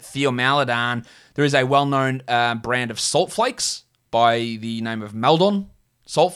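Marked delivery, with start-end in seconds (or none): 0.0-1.1 "Theo Maladon" in a slow American accent, with a hard TH. Shown as a demonstration. Saying the player's name in his American accent, slowed down. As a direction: drawl "Theo Maladon" the way an American would, starting on a TH sound. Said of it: "or in my American accent".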